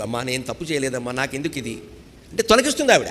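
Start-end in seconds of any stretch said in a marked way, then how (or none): 0.0-1.8 tearful plea. Pretend. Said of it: "కష్టం వస్తే కన్నీళ్ళు".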